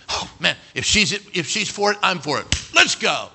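quoted pastor, eager and rising to a loud finish; an eager father-in-law saying yes. Retold or imitated. Pastor happily agreeing to the marriage, eager and loud.

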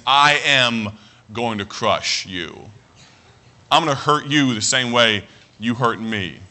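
slow, low threat with deliberate pauses; mock menacing. Pastor acting out lashing out at enemies, slow and menacing. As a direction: spell out the threat as if crushing someone. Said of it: "Or do we lash out".

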